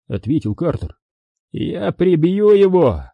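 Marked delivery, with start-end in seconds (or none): 1.5-3.0 higher-pitched, drawn-out threat; angry growl. A narrator's reading. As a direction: growl it slowly as a gang boss's threat. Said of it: "прорычал главарь". (яростно, с рыком)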